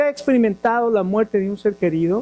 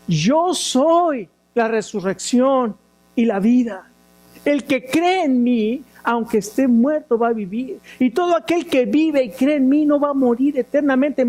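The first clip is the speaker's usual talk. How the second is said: preaching Jesus's words; 5 semitones higher than usual. Retold or imitated. Preacher voices Jesus, retelling.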